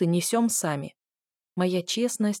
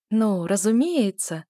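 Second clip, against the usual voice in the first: sweetly smiling; slower than usual. Acted. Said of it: "мило улыбалась я".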